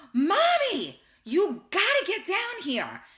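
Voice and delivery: put-on high, loud kid yelling for mom; child calling out. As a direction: holler downstairs-to-upstairs like an excited child. Child calling parent downstairs.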